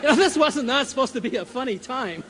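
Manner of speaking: talking through real laughter; can't stop giggling; apologizing through helpless laughter; laughing. Real, not acted. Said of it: "I can't help it".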